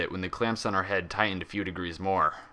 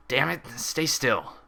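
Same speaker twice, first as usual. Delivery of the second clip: irritated order, slow and a little higher; orderly barking; 5 semitones higher, slower than usual. A narrator's reading. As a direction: snap at the patient to hold still. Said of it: "the orderly barked".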